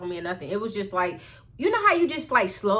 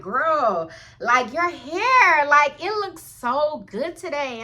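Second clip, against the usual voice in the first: slow, higher, gushing praise; seemingly genuine compliment; 5 semitones higher, 4 dB louder, much slower than usual. Retold or imitated. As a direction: imitate a girl sincerely admiring, stretching key words. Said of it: "she seemed so genuine".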